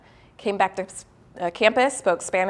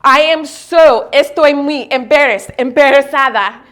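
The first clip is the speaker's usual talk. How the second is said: flustered; 4 semitones higher, 6 dB louder than usual. Retold or imitated. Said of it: "I would never say something like that".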